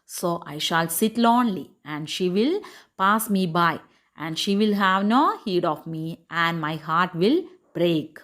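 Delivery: slow, measured English read-aloud; story reading. A narrator's reading. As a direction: read the tale slowly, phrase by phrase. (സാവധാനം കഥ വായിക്കുന്നു)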